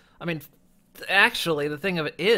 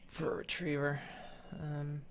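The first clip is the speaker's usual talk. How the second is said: speaking through hiccups; words broken by hiccups; hiccuping; 6 dB quieter than usual. Real, not acted. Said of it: "sorry, I'm hiccuping now".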